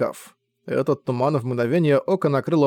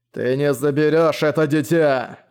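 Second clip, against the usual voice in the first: slow, rasping hoarse delivery. Acted. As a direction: rasp it out slowly, voice rough. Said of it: "хриплым голосом произнёс он".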